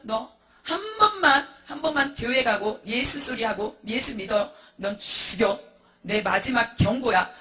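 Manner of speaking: slow, drawn-out threat; acted ultimatum, dragged out slowly; menacing final warning. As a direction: stretch each threat out with heavy force. Husband gives wife a final warning.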